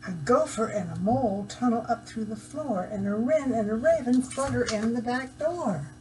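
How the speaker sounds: lively storybook read-aloud; reading to children. Acted. Reading picture book to children.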